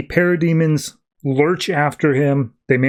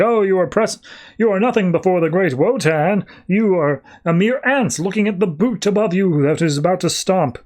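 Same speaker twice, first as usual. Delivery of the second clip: raised-pitch grandiose villain boast; pompous sorcerer; 5 semitones higher than usual. Retold or imitated. Sorcerer gloating over trapped Constantine, grandiose raised voice. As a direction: lord it over him like a god. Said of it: "And he's just like".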